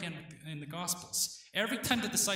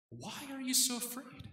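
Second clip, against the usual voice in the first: Why are you so afraid? lifted higher and softer, wondering; inner question; 8 semitones higher, 3 dB quieter than usual. Retold or imitated. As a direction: ask Why are you so afraid? high and soft, as if to oneself. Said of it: "so that Peter could think".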